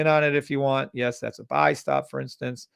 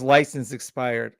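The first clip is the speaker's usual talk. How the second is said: whispered, slow, reading it out in disbelief; hushed disbelief; slower than usual. Real, not acted. Streamer reads a student's message aloud, hushed and stunned.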